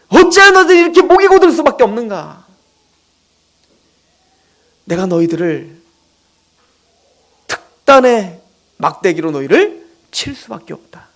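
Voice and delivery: three climbing reproaches, then a grave verdict; preacher voicing God rebuking his stubborn people; God's rebuke. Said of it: "하나님이 그런 마음인 거예요".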